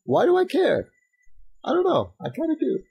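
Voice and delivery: high, worried, pleading voice; anxious inner voice. Retold or imitated. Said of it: "I was like".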